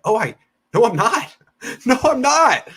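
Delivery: high, laughing mock denial, slowing at the end. To the podcast guest, a high laughing mock denial. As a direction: scoff at the idea of eating crow, laughing.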